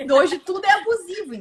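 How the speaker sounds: laughing. Real, not acted. Laughs while saying it.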